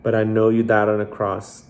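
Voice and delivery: measured prayer, long pauses between phrases; leading a prayer. Real, not acted. Host leading listeners in the prayer to accept Jesus, measured and prayerful. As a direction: pray it phrase by phrase for others to follow.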